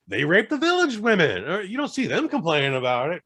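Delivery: shrill scornful mock of a medieval mom; bitchy mother-in-law. Mother scolding her son's wife, mocking high scornful voice. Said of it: "And she's like".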